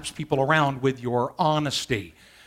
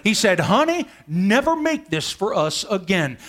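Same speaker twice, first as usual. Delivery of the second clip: louder, higher exasperated husband; exasperated outburst; 4 semitones higher, 6 dB louder than usual. Retold or imitated. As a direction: blurt it out, fed up at last. Husband bursts out at table.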